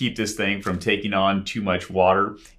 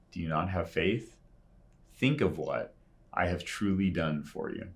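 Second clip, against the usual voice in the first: soft, tender reminder; gentle reminder; 5 dB quieter than usual. Retold or imitated. Jesus reminding troubled believers of his care, softly.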